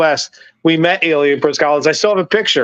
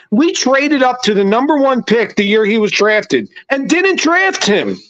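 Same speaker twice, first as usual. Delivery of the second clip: pitched-up, exasperated sports rant at the front office; heated rant; 2 semitones higher than usual. Real, not acted. Fan ranting at the team's front office, heated and exasperated. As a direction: vent at the Sixers like a fed-up fan. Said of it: "Sorry, that was my rant".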